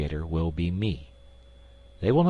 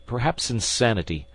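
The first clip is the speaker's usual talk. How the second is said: ordinary delivery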